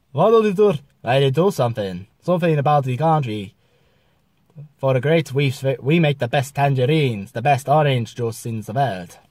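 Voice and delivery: bad mock Spanish accent; hammed-up Spanish accent, badly faked; terrible Spanish accent. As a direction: put on a clumsy Spanish accent. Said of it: "that was a terrible Spanish".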